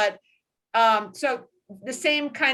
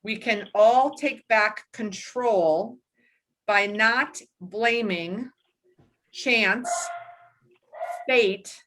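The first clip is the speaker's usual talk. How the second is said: slow, measured reading of a quote; slower than usual. Acted. Host reading a book quote to the listener, slow measured reading. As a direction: lay each word down slowly, like wisdom.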